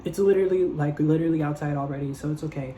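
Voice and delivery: high-pitched sweet brush-off; fake breezy decline. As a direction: wave him off brightly. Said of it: "I was like".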